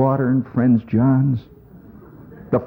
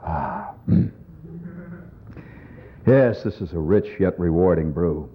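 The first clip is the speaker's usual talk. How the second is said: lower, smooth pitchman voice; beer ad guy; 6 semitones lower, 4 dB quieter than usual. Retold or imitated. Comic mocking the beer commercial customer in a lower, smooth pitch. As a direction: savor it like a beer commercial actor. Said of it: "He looks at it and he says".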